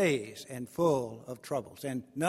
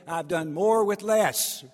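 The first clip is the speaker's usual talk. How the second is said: firm voice of God; 4 semitones higher, 6 dB louder, slower than usual. Acted. God answering Gideon firmly.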